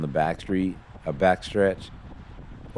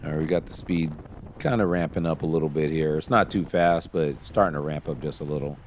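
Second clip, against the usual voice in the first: drowsy, half-asleep voice; falling asleep. Real, not acted. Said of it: "See, I'm falling asleep".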